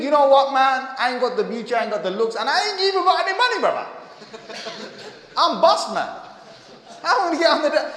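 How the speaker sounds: laughing self-mockery. Voicing a broke, plain brother.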